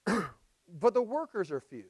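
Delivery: "the workers are few" drawn out and weighted; slow emphasis. Shown as a demonstration. Preacher pointing the congregation to the verse, slow emphasis. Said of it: "You see the emphasis right there?".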